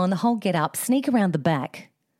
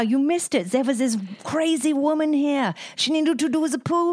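excited retelling; 6 semitones higher than usual. Retold or imitated. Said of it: "He goes".

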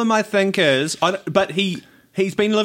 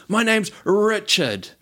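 slow, drawn-out name, pitched up; slower repeat; 4 semitones higher, much slower than usual. Retold or imitated. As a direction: imitate a caller spelling it out slowly. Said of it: "I'll do that a bit slower".

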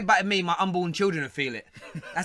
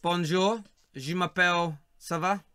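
bad French. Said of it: "My French is awful".

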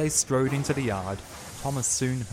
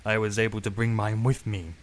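boastful; 5 dB louder than usual. Acted. Baxter boasting.

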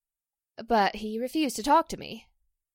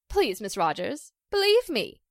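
pleading. Acted. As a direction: beg her to believe you. Pleading to be believed innocent.

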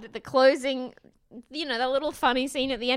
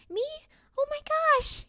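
much higher, wide-eyed gasp of disbelief; mock amazed; faster than usual. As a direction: squeal it like you can't believe you won. Imitating Alex's surprise at winning.

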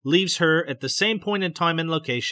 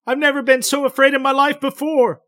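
much higher, louder anguished outcry; anguished cry; 10 semitones higher, 7 dB louder than usual. A narrator's reading. Betty crying out to the doctor about her fear, anguished. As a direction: cry it out in terror. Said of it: "breaks out with an anguished cry".

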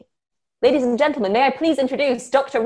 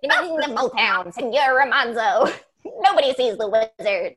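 munchkin radio announcer. Retold or imitated. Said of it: "like, the Wizard of Oz munchkin".

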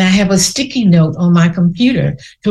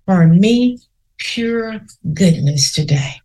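confident affirmation. Shown as a demonstration. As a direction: say it like you mean it, with your whole body. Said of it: "say it with confidence".

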